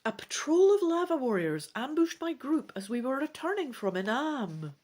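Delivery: lively read-aloud storytelling voice; story narration. A narrator's reading. Reader voicing the dragon adventure aloud, animated narration. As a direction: read the gamebook with energy.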